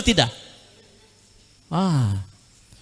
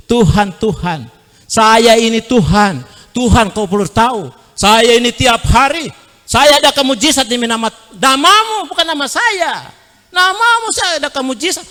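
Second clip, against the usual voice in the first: pleading believers; 4 semitones higher than usual. Retold or imitated. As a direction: plead your record up to God. People pleading to God at judgement.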